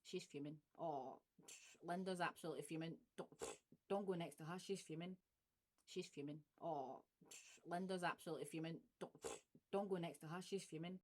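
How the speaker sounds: hush-warn about Linda; Glaswegian gossip. Shown as a demonstration. Warning a friend about Linda, Glaswegian gossip. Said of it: "Or else, like".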